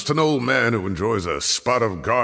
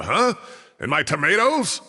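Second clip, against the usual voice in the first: indignant disbelief; 8 semitones higher than usual. Acted. Old professor indignant about tomatoes.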